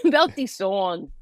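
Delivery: drawn-out Bronx "song"; Bronx accent. Shown as a demonstration. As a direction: stretch it out in a playful Bronx accent. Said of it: "Bronx accent came out a little bit".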